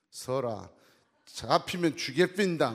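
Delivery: loud mock threat in Gyeongsang dialect; threatening Gyeongsang husband. Gyeongsang husband chasing his wife, loud mock threat. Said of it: "경상도 남편이".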